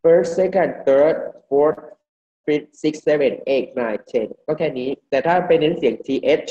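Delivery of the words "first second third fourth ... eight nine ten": "first second third" run off with the final th sounds dropped; unstressed endings from "first" to "ten"; careless ordinal reading. Shown as a demonstration. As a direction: read the ordinals as plain numbers, endings not stressed. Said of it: "ถ้าเราไม่เน้นออกเสียงให้ถูกมากก็อ่าน".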